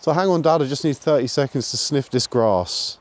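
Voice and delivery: a hint of a pleading dog; voicing the dog. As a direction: speak for the dog, cheeky. Voicing dog talking to owner.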